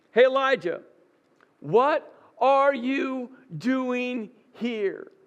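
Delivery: slow, searching voice of God, drawn out; God asking Elijah. Acted. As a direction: lean in slowly, like God probing the heart.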